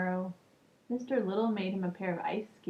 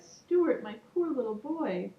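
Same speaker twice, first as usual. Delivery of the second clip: worried mother; 4 semitones higher than usual. Acted. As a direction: call out to her little boy. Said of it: "she cried".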